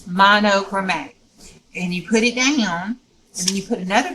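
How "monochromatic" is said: "Monochromatic" said firmly, every syllable distinct; careful pronunciation. Shown as a demonstration. Crafter repeating her own way of saying "Monochromatic", careful pronunciation. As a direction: sound out "Monochromatic" as mah-no-cro-MAT-ic. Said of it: "that's how Juju pronounced it".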